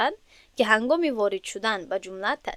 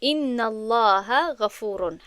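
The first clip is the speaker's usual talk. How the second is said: slow repeat, stressing ان; slow second reading of «ان الله غفور» that hits ان and falls at the end; slow Arabic example; much slower than usual. Shown as a demonstration. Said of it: "مثال رو نظر کنید".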